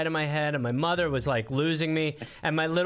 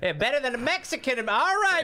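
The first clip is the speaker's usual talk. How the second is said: higher, quick hammed-up Southern voice; hammed-up Southern mama, higher and faster; mock Southern mama; 9 semitones higher, faster than usual. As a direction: play a boastful Southern cook, quickly.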